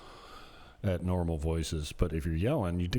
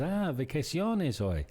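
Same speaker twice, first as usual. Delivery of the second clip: higher, drawn-out 'ah' of remembering; acted realization; 8 semitones higher, slower than usual. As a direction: play a sudden realization, stretched out. Acting out feigned sudden realization.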